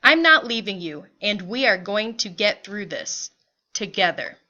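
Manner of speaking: emphatic start, settling into mild resolve; lightly voiced resolute father. Father promises mother they will stay together, understated resolve. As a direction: play a husband gently insisting.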